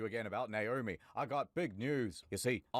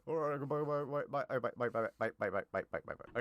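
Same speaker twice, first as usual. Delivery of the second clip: fading goodbyes. Retold or imitated. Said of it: "And then Colonel's like".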